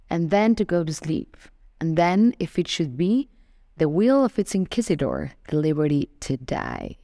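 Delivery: measured recital, pausing after each line; poem reading. Acted. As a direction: recite the verse deliberately, phrase by phrase. Reads the poem a second time.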